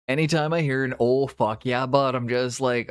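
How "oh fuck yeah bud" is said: lightly put-on Canadian hoser, louder; Canadian accent. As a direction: toss it out in a loud Canadian accent. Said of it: "we can all turn the accent on".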